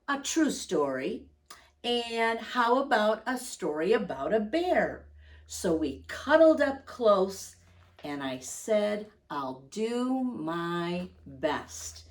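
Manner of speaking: gentle read-aloud voice for little listeners; cosy picture-book narration; storybook reading. Acted. Reads picture book aloud to children.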